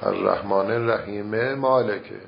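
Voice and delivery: «الرحیمِ مالکه» with the kasra of the first mim sounded; careful «الرحیمِ مالکه» in one breath; kasra shown on mim. Shown as a demonstration. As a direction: keep the vowel: «الرحیمِ» then «مالکه». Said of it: "کسرهٔ میم اولو ظاهر بکنه".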